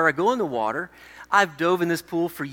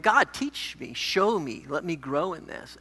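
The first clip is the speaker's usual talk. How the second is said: humble prayer; 6 dB quieter, slower than usual. Retold or imitated. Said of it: "not in a doubtful way".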